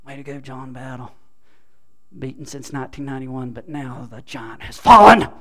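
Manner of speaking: building from low to a loud triumphant cry on "fallen"; gleeful cheer. Shown as a demonstration. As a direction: crow over the rival's fall. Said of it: "I guess I had to move from mutter".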